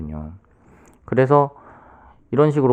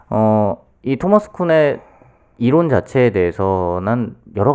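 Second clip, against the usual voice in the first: speaking up; 3 semitones higher, 3 dB louder than usual. Real, not acted. Guest speaking up after the host asks for more volume. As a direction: push the voice out more so listeners can hear. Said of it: "크게 하셔야 될 것 같아요".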